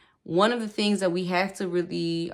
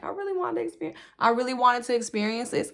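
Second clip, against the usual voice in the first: laughing; 8 semitones higher, faster than usual. Real, not acted. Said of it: "Sorry, I'm laughing".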